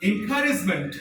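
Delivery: encouragement ending in "munt"; slow encouragement, last vowel a short "uh"; schwa ending. Shown as a demonstration. Teacher models for pupils, encouragement ending in "munt". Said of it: "ई से भी अ sound होती है".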